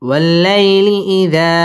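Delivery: drawn-out syllables; slow reading. Shown as a demonstration. Teacher slowly models the phrase. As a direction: stretch each syllable.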